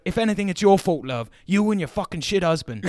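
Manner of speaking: hammed-up teacher scolding; mock angry rant. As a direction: blame the mum, laughing through it. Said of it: "He's like".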